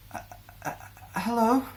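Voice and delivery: a timid, halting hello that jumps up high; nervous stammer. A narrator's reading. Anxious girl stepping into the clearing, nervously stammering hello.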